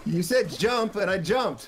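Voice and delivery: slow, shouted complaint; indignant shout. Real, not acted. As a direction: yell it in mock protest. Defending his jump.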